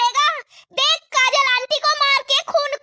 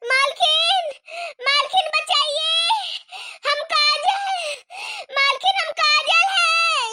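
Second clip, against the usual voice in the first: crying call; 2 semitones higher, slower than usual. Acted. Victim calls to mistress.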